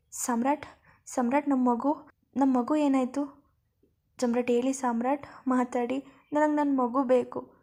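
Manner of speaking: mild acted loud crying plea; a touch of tearful pleading, gripping his collar; crying loudly. Siri clutches Samrat's collar begging about their baby, mildly tearful. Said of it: "ಜೋರಾಗಿ ಅಳೋದಕ್ಕೆ".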